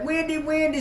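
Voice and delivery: high-pitched eager calling of a friend's name; calling out excitedly. Retold or imitated. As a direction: call her name like you're thrilled to see her. Ashley runs over calling Wendy.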